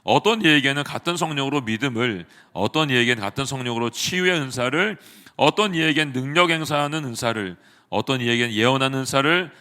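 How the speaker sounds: measured, steady and even Bible reading; scripture reading. Acted. Pastor reading the passage to the congregation, steady solemn reading. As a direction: read each line clearly and solemnly.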